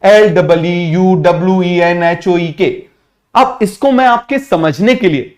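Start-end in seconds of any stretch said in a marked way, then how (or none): 0.0-2.7 slow letter-by-letter spelling; dictating letters slowly like a teacher. Shown as a demonstration. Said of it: "इसकी spelling अच्छे से देख लो".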